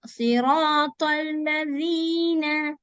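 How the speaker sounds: Siratal ladhina slowly chanted; slow recitation. Shown as a demonstration. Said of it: "Fatha and join with the lam".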